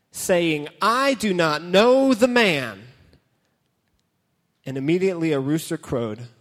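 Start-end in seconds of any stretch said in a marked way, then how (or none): 0.8-2.9 cursing denial. Acted. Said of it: "he began to curse and swear".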